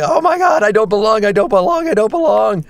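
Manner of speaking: high, repetitive fretting; mock panic. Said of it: "Tom and I are like".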